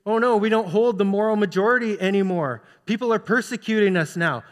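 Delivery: lightly acted church complainer; a touch of mock dismay; mock complaint. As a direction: imitate someone complaining about persecution. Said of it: "complain about it and say".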